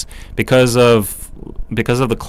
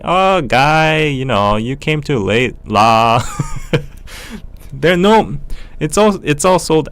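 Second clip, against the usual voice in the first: Singlish; 6 semitones higher than usual. Retold or imitated. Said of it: "I'm trying to do the Singaporean accent".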